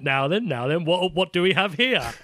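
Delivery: plodding British bobby voice; lightly voiced nosy copper; dim pompous cartoon cop. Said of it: "What is it the police say?".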